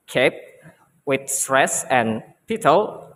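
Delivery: "kept" set apart as the stressed syllable, then "pital"; stressed syllable breakdown. Shown as a demonstration. Student teaching classmates capital's stress, word broken into syllables. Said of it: "the sounds of the word capital will be".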